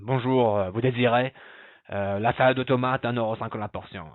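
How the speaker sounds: loud, frustrated French shopkeeper; grumpy, harassed. Shown as a demonstration. Teacher showing theatrical dialogue reading, grumpy and harassed. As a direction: serve the customer as if tired and fed up. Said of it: "read it as a kind of grumpy".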